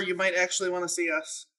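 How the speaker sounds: called through a closed door; yelling through a door. Acted. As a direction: raise it to carry through a door. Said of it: "I'm yelling through the door".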